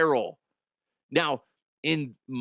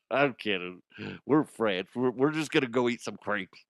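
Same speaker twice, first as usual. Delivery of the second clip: mock French backing down; 4 semitones lower than usual. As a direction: shrink back meekly. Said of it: "they're like".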